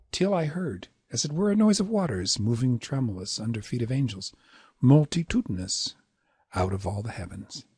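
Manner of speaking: measured verse reading, subsiding at the close; rhythmic poetry reading; poem recitation. Shown as a demonstration. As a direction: recite with metrical care, lingering on multitudinous.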